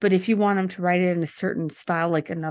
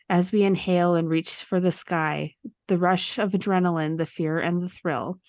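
rhythmic poem recitation; poem reading. Acted. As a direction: read it like a rhyming poem. Reads ChatGPT poem aloud.

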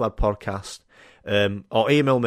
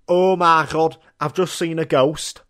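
mock astonishment; 4 semitones higher, 4 dB louder, slower than usual. Host acted seeing a ghost.

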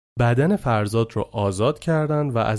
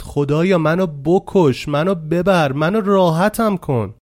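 slow, higher, louder desperate cry; retold yelling to God; 5 semitones higher, 4 dB louder, slower than usual. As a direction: plead at the sky, slowly and loudly.

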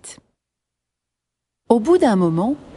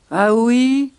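lightly voiced sceptical lion; growling lion; 3 semitones higher, 3 dB louder than usual. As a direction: question it with a hint of a growl. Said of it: "grogne le lion".

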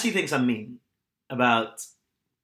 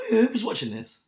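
mock disbelief; 8 semitones higher than usual. Mocking baffled reaction to reviews.

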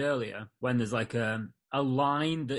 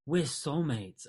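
mock soppy; much slower than usual. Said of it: "So when he says".

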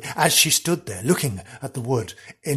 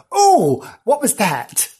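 high, startled horse voice; high mock-alarmed exclamation; spooked horse; 8 semitones higher, 5 dB louder, slower than usual. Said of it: "It went".

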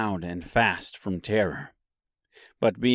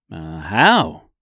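questioning Tin Woodman; 6 semitones lower, 5 dB louder than usual. A narrator's reading. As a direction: jump up in pitch, puzzled. Woodman's eager question to beast.

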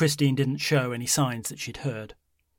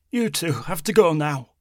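put-on louder, upset old woman; distressed shout; 5 semitones higher, 7 dB louder than usual. A narrator's reading. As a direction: push them away in distress. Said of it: "Christine had started to shout".

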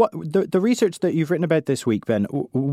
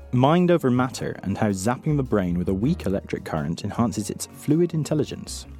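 bright curious science host; 3 semitones higher than usual. Acted. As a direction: open the show like an eager science presenter. Podcast host opening the show.

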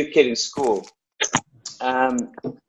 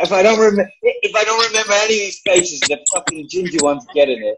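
laughing joking threat; 5 semitones higher, 3 dB louder than usual. Acted.

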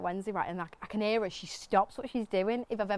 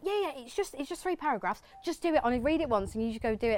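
higher-pitched imitation of a dismissive producer; lightly voiced, higher, breezy reassurance; breezy crew member; 5 semitones higher than usual. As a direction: mimic someone brushing off a worry. Voices breezy producers handing scripts.

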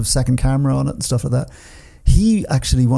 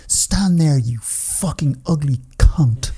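swearing tirade; much slower than usual. Retold or imitated. Retold on-set swearing quarrel.

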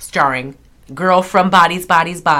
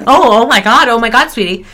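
a higher put-on gush; Jennifer Aniston impression; 5 semitones higher, 5 dB louder than usual. Still doing Aniston, higher gushing put-on voice. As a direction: keep the Aniston voice going. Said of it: "apparently I don't sound like her".

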